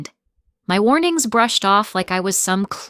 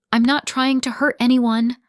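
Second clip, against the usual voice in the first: higher, louder pleading with a tremble in it; trembling voice; 6 semitones higher, 4 dB louder than usual. A narrator's reading. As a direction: push the words out as if they might break. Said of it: "my voice trembling".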